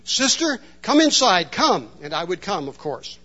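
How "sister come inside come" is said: lightly voiced grandmother calling, a touch higher; hint of a knowing grandmother; conspiratorial. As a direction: call the girl in with a secret air. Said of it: "she would say conspiratorially".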